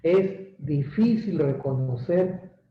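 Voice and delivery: pointed, confronting tone; aggressive. Shown as a demonstration. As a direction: aim it at the listener. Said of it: "Lo hago agresivo".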